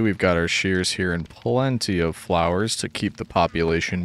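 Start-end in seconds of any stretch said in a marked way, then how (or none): none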